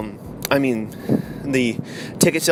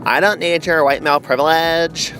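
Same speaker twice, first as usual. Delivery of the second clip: Brie Larson; 3 semitones higher, 3 dB louder than usual. Acted. Actress staring down Thor, mocking indignant impression. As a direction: sneer it as a haughty heroine, building. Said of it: "that's what she looks like".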